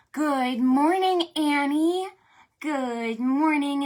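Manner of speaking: excited greeting. Real, not acted. Greeting a child by name.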